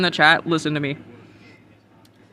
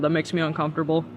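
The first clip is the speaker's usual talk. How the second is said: a quieter, deadpan echo; softer repeat; 2 semitones lower, 6 dB quieter, faster than usual. Shown as a demonstration. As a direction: say "uncomfortable" again, softer. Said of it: "As a, as a trusted adult".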